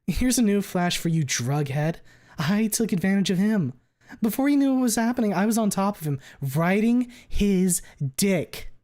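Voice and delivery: high, loud, rushing fury; hysterical rage. Acted. Fang shouts her confession, high, loud and half hysterical. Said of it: "between hysteria and blind rage".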